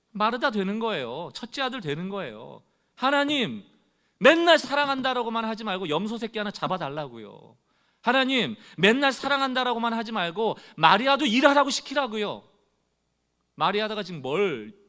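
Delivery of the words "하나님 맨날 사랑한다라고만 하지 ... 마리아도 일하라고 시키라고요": higher, louder grievance thrown at God; complaining. Retold or imitated. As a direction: demand your due like the resentful son. (하나님께 따지듯 높고 크게)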